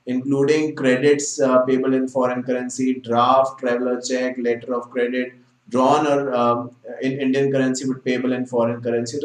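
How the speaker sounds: slow, deliberate reading of a statute; measured textbook recitation; reading legal text. Acted. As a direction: read the definition out word by word. Reads statute definition aloud.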